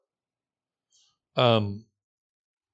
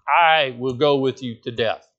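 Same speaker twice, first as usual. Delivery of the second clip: confident vow. Retold or imitated. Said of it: "as confidently as he answered Jesus".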